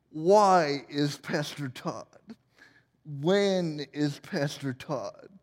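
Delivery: slow, deadpan silly questions; mock interviewer. Interviewer trailing into silly questions, slow mock-serious. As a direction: ask nonsense with a light TV-host gravity. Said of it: "ask questions like".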